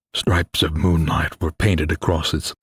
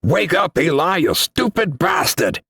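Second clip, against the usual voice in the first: growled; 10 semitones higher than usual. A narrator's reading. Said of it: "Xavier growled".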